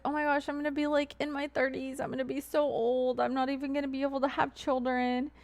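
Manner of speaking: mocking whiny girl voice. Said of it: "she's like".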